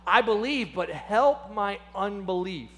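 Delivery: a touch of an emotional plea; overcome with emotion. Retold or imitated. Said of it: "overcome with emotion".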